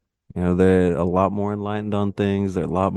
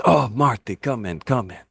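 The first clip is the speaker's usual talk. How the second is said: Iron Sheik voice. Retold or imitated. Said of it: "and Iron Sheik says".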